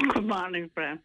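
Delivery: bright greeting said through a smile; smiling voice. Real, not acted. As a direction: greet him with a smile you can hear. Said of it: "I can hear the smile in your voice".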